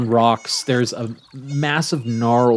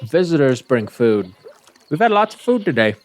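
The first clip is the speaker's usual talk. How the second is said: goat voice; 3 semitones higher than usual. Acted. GM voicing goat.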